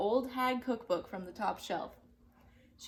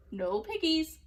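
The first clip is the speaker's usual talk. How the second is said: duck voice; 6 semitones higher, 4 dB louder than usual. Acted. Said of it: "quacked the duck".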